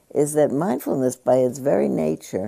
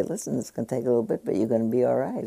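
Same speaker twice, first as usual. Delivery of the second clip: brisk dentist; 5 dB quieter, faster than usual. Retold or imitated. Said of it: "and they say".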